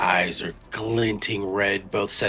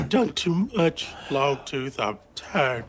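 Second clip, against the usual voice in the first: anguished plea; 5 semitones higher than usual. Acted. Worn-out character pleading after outburst.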